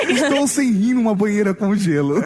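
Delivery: slow mock tweet through laughter; laughing. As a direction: read it out cracking up.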